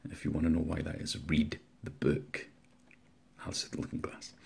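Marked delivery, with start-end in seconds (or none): 3.4-4.3 "Alice Through the Looking Glass" breathed as a soft whisper; whispered title. Real, not acted. Telling viewers which book to read, whispered. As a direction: let the title drop to a whisper.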